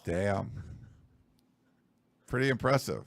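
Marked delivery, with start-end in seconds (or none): 0.0-0.6 whisper. Real, not acted. Reacting to the hushed prediction.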